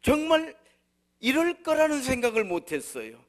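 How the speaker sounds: high, loud pulpit cry; loud, high opening of a sermon; forceful preaching. Acted. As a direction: preach it out at the top of your voice. Preacher opens at full force.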